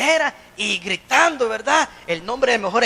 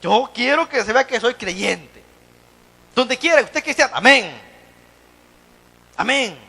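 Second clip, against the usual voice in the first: quoting the pastor; 2 semitones higher, 4 dB louder than usual. Retold or imitated. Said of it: "Nuestro pastor general siempre nos enseñó".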